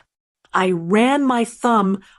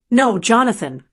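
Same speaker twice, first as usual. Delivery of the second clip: firm. Acted. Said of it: "It was firm".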